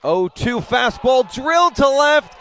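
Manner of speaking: high, loud, shouting call; excited home run call. Real, not acted. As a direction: yell it as the ball flies. Deep fly ball call.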